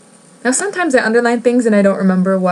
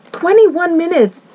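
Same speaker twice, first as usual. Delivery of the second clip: high, loud disbelief; real startled shriek at the runtime; shocked; 10 semitones higher, 3 dB louder than usual. Real, not acted. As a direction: gasp it out, stunned by the number. Shocked at video length.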